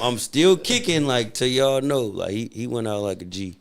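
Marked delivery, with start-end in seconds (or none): 0.0-2.1 high slow stubborn dog voice; voicing old dog. Sparky the old dog insisting to family he's still kicking, high and slow. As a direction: drag it out like an old dog refusing to go.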